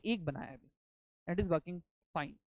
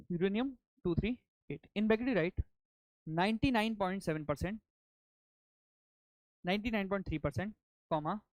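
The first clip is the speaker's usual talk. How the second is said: dictating. Shown as a demonstration. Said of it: "let me dictate now".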